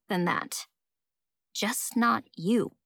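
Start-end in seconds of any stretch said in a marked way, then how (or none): 1.5-2.7 slow, drawn-out "just not you"; remembered jab, repeated slowly; brooding echo. Acted. Narrator mulls over rival's words.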